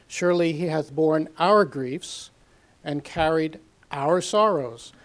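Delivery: scripture reading. Acted. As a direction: read the verse out to the congregation. Reads scripture verses aloud.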